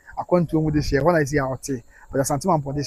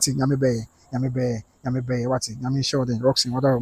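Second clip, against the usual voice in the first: low, gentle reassurance; soft condolence; 6 semitones lower, 9 dB quieter than usual. Real, not acted. Host consoles viewer who spoke to him days ago, tender. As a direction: comfort the mourner softly and low.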